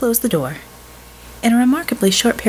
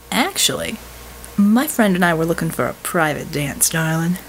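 drawl; 3 semitones lower than usual. Acted. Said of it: "Jeannie drawled".

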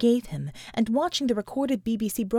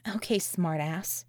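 muttered, softer and slow; 4 semitones lower, 5 dB quieter, slower than usual. A narrator's reading. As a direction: mutter it under your breath at him. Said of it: "she muttered".

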